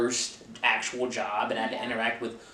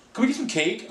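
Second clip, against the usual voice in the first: mimicking uppity guests; 8 semitones higher than usual. Mimicking demanding banquet guests.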